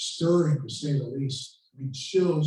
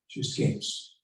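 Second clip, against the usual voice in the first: whispered, dropped to a breath; hushed aside; 6 dB quieter, slower than usual. Shown as a demonstration. Lecturer hushes the key line to the class, whispered. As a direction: let it slip out almost unvoiced.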